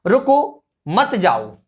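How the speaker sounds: रुको alone, a clear pause, then मत जाओ together; pause after रुको. Shown as a demonstration. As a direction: stop after रुको, slowly telling someone not to go. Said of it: "रुकने के लिए बोला गया है". (रुको के बाद ठहराव, फिर मत जाओ)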